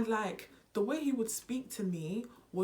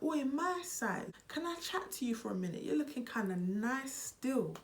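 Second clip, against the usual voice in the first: a hint of a cheeky British guy on the road; British guy chatting up; 6 semitones higher than usual. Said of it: "it's like".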